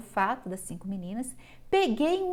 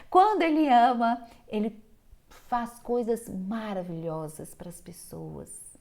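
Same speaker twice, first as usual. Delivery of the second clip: emphatic; 3 dB louder than usual. Real, not acted. Lecturer praising the loving tuberculinic, loud and lifted. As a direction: lift and punch "Quando ele ama". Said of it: "lecturer contrasting love and no love".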